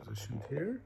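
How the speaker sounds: whispered aside to herself; quick whispered note before starting. Real, not acted. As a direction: breathe it, no voice. Setting up before reading.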